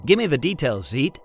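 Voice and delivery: captain barking for details; barked order. Acted. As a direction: snap the order at the robot. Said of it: "Jason barked".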